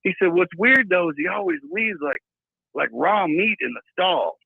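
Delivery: high, casual hick voice; redneck clerk. Retold or imitated. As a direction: shrug it off like a hick. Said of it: "He was like".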